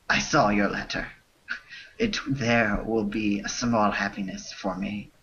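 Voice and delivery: lightly put-on French accent reading broken English; a hint of a fake French accent, half laughing; bad French accent. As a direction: read the spam in a mock French accent, breaking into laughs. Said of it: "read this spam in a bad French accent".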